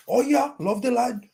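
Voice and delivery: high, drawn-out mock Brummy; slow, lifted Brummy impression; Brummy accent. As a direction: imitate a Villa fan in a high-pitched Brummy accent. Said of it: "he's got the Grealish Brummy accent on it".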